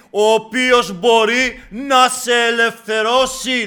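loud, drawn-out proclamation; ringing sermon delivery; forceful preaching. Acted. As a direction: exhort the congregation, building to a slow shouted climax.

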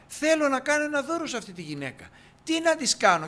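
a hint of Elisha keen to give a gift; voicing Elisha. Elisha asks his servant what gift to give, lightly eager.

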